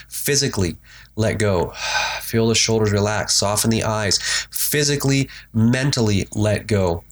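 walk the listener gently through breath and release; a meditation teacher easing you into relaxation; guided meditation. Acted.

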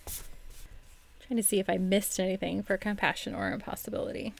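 soft, half-whispered aside; under her breath. Real, not acted. Host checking her notes for anything missed, under her breath. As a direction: murmur it softly to yourself.

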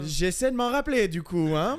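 put-on French-from-France accent; accent français de France. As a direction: stay in the mock French accent. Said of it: "j'ai chié l'autre avec l'accent français". (faux accent de France)

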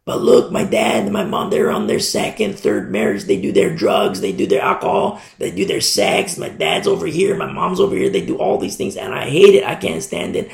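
put-on high, hushed teen complaint; complaining teen. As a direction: play the upset kid listing the parents' sins. Teenager complains about parents.

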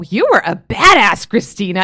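put-on loud, drawn-out praise of her old self; emphatic self-praise. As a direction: cheer your past self on, slowly and firmly. Proudly addresses her past self.

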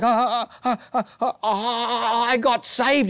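high, stammering nervous laughter. Retold or imitated. Caught student laughing nervously to the principal. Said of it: "I'm like".

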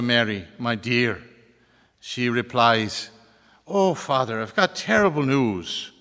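phony baloney Irish lilt for a joke; phony Irish accent. Pretend. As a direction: joke told in a put-on Irish brogue. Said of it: "do this in my phony baloney Irish accent".

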